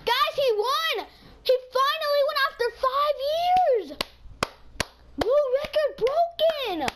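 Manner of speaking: fake-proud announcer tone; mock announcement. Telling viewers the opponent finally won, sarcastic hype.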